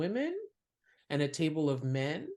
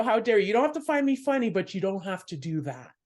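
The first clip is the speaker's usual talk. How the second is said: louder, higher mock outrage that fades at the end; indignant scold; 3 semitones higher, 4 dB louder than usual. Comic scolding scowling men at golf club, indignant. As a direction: put the hecklers in their place.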